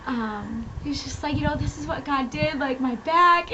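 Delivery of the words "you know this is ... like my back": higher-pitched retelling of an overwhelmed man; mildly imitated freak-out. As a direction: lightly act out someone shaken up by a miracle. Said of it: "and he was freaking out".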